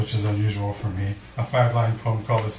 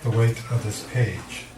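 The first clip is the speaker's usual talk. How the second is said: poem reading. Acted. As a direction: lean on each "weight". Reads poem Specific Gravity.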